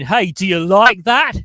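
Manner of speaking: loud, drawn-out mock holler; mock catchphrase shout. Teasing host with a quarterback's catchphrase, mock shout. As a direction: belt it out like a catchphrase.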